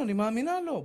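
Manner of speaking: ordinary talk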